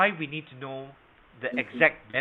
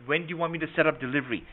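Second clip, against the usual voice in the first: faster, easy assumptive close; quick demo close; faster than usual. Shown as a demonstration. Trainer demonstrating an assumptive close to students, quick and easy. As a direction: breeze through it like it's settled. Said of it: "It's like".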